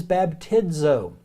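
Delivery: baptizo said slowly, bap-TI-zo; slow teaching pronunciation of baptizo; slow careful baptizo. Shown as a demonstration. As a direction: draw out baptizo for learners. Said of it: "First word is".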